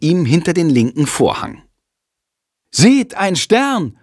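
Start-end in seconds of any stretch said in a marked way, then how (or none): 2.7-4.0 slow, high stage call; announcing. A narrator's reading. Jendrik announcing the star on stage, slow and high. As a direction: proclaim it like a herald, slowly. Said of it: "ruft Jendrik laut".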